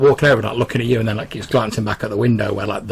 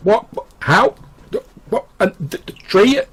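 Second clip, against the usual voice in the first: much higher, rising, disbelieving questions; bewildered squeak; 12 semitones higher, 4 dB louder than usual. Acted. Madam baffled by the tree, high bewildered squeak. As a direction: voice shoots up in utter confusion.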